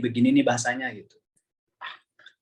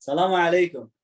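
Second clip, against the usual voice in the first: firm Arab greeting; 4 semitones higher, 3 dB louder than usual. Shown as a demonstration. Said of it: "keras aja".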